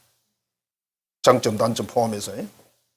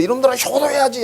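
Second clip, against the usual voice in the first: put-on higher, scolding call to the kids; mock scolding parent; 10 semitones higher, 4 dB louder than usual. Parent nagging children about filial duty, mock scolding. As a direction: nag the children like a fed-up parent.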